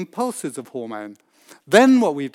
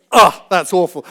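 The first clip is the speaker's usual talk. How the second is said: loud hammed-up scream at scalding water; mock scream; 10 dB louder than usual. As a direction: yell it like the shower just burned you. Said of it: "And he screams".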